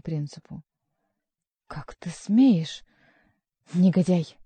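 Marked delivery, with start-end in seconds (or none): 1.7-4.4 outraged. A narrator's reading. Prince outraged at count.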